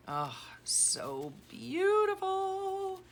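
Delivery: very high, slow swooning coo. Real, not acted. Gushing over a friend's journal, very high and slow. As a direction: stretch it out high in delight.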